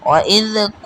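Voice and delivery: long-held vowel on "ক"; measured elongation. Shown as a demonstration. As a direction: stretch "ক" at the end by a measured amount. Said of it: "কম টান দিলেও হবে না".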